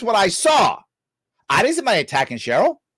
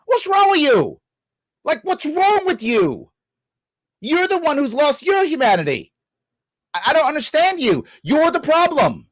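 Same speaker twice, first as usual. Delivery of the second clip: exasperated anger; 5 semitones higher than usual. Real, not acted. Confronting co-host directly.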